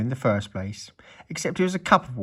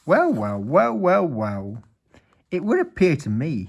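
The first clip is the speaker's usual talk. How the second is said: pompous wizard, raised pitch; 6 semitones higher, 4 dB louder than usual. A narrator's reading. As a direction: play the wizard, savouring every word. Wizard voice, higher.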